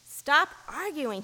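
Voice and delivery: a Rajah silencing the quarrel, commanding. A narrator's reading. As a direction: order them to stop, dragging it out. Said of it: "he said in a commanding voice".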